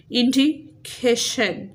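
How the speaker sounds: इंडिकेशन said slowly with stress on "के"; teacher stressing the "के" in इंडिकेशन; syllable stress demo. Shown as a demonstration. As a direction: draw out इंडिकेशन, leaning on "के". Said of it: "सीए पे क्या है? Stress है".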